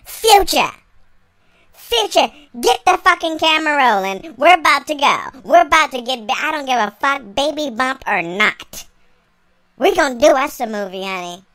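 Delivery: loud, eager calls to get filming; yelling for the camera to start rolling; excited shouting. Retold or imitated. Pregnant wife shouting to her husband Future to film. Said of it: "I was like".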